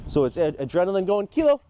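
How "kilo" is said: 1 loud urgent call. Real, not acted. Adrenaline going, dog fired up.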